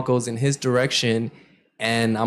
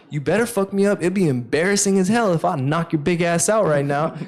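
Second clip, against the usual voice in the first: higher-pitched cocky taunting; retold trash talk; 6 semitones higher than usual. Player answering a threat from the big guy, retold taunt. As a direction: goad him, pitch up, no shouting. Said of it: "crazy running my mouth to him".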